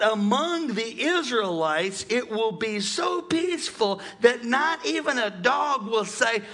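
high, slow preaching cadence. Real, not acted. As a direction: stretch the key words like a preacher.

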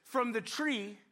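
slow, pointed blame-shifting; sulky husband passing the buck; blaming Adam. Acted. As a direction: drag it out, pinning it on her. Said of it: "Adam is playing the blame game".

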